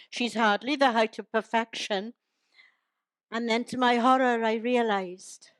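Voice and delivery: measured, rhyming verse delivery; storytelling in steady verse rhythm; comic poem recital. Acted. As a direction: recite it as light verse to an audience.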